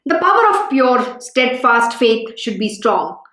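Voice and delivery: measured, solemn reading aloud; scripture reading. Acted.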